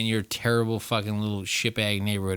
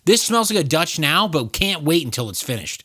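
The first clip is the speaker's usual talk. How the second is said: worked-up rant; 9 semitones higher, 7 dB louder than usual. Real, not acted. Arguing with co-host.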